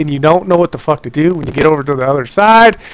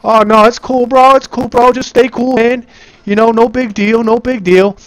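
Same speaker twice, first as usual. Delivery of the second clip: forced calm; 7 semitones higher than usual. Real, not acted. Panicking teammate told stay cool.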